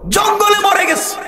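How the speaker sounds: exclaiming shout. Acted. God shouting the place to Moses. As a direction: call it out with emphasis.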